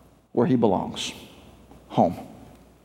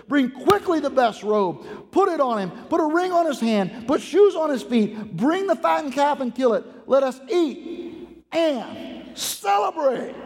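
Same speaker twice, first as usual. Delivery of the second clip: excited commands; 4 semitones higher than usual. Acted. Preacher reads father's orders excitedly.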